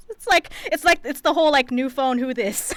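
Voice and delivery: loud laughing through words. Real, not acted. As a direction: laugh while saying it.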